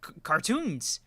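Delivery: high squeaky shocked outburst; mock disbelief. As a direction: act stunned, pitch shooting way up. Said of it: "I was like".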